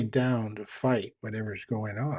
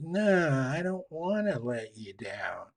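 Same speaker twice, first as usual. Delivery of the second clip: put-on refusing little girl. Voicing girl refusing in story.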